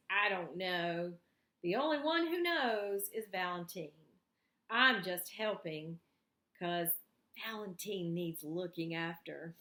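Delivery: a loyal friend explaining simply; patient Noel. Acted. Noel voiced, answering old lady.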